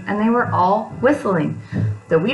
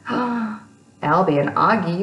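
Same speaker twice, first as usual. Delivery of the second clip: gasping surprise; much slower than usual. Real, not acted. Gasp of excitement to kids.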